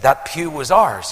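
understated imitated boast; touch of pride. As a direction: state it with a little family pride. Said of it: "a wee touch of noted pride".

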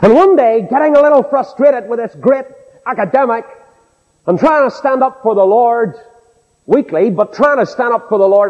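high-pitched pulpit storytelling. Acted. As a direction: launch into the anecdote like a preacher.

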